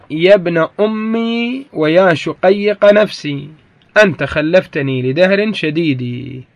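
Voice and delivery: slow, measured line of Arabic poetry; verse recitation. Shown as a demonstration. Teacher quotes the poet as evidence, reciting slowly. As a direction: recite it slowly, drawing out the long vowels. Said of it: "كقول الشاعر".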